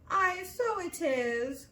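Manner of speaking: excited cry. A narrator's reading. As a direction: seize on it triumphantly. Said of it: "cried her mother".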